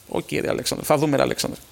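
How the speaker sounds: breathy whispered shrug of a reply; resigned whisper. Real, not acted. Host to listener Alexandros, resigned whisper. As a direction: let it go under your breath, resigned.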